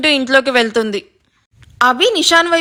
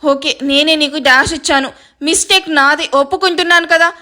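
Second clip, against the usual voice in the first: flustered hushing, mildly exasperated; awkward, irritated giving-in; embarrassed; 3 semitones higher than usual. Acted. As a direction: shush them because everyone is watching. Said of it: "ఇబ్బందిగా అంటాడు".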